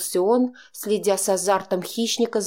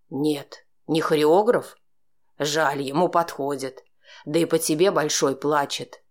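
low, scornful man's voice; bitter sarcasm from a betrayed lover; jealous man, sarcastic; 4 semitones lower than usual. A narrator's reading. Oleg voiced by narrator. (ревнивый мужчина, язвительно)

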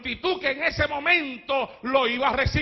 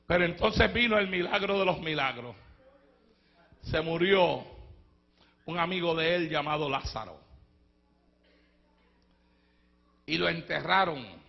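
hushed solemn narration; 8 semitones lower, 5 dB quieter than usual. Acted. Preacher hushing the church before the miracle, low and soft. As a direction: drop low and hush for the miracle.

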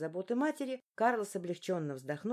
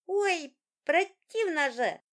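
high, loud laughing squeal; squealing boy; 10 semitones higher, 8 dB louder, much slower than usual. A narrator's reading. Son squirming away from his father's kiss, squealing. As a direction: squeal and fight him off like a tickled kid. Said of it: "отбивался мальчик".

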